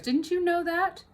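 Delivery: bossy lady calling from upstairs; sharp mistress voice. Acted. Mrs Bean from upstairs.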